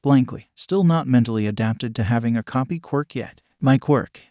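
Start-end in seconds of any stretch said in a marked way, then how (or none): 3.6-4.2 a touch louder, shouted lightly; lightly shouted line; mild shout. Acted. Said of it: "his mother shouted".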